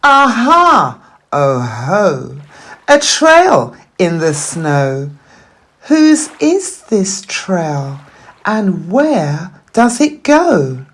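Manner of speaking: a little explorer spotting clues; excited child. Acted. Gruffalo's child alone in the wood, excited discovery.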